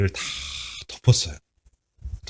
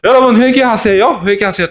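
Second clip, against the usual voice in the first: high, offhand mock call; half-hearted call to repent while strolling; careless; 10 semitones higher, 6 dB louder than usual. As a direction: rattle it off without caring. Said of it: "대충대충 걸으면서".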